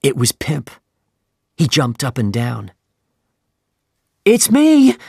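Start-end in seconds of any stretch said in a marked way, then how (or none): 4.2-5.0 desperate cry. Acted. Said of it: "he cried".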